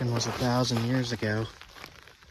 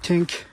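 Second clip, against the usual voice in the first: glassy tink; 6 semitones higher than usual. Retold or imitated. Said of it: "Sounds like you dropped glass".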